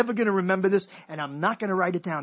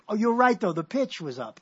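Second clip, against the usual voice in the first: mouse-small voice; 3 semitones higher, 3 dB louder than usual. Retold or imitated. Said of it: "imitating what our voices would be like, like mouse small".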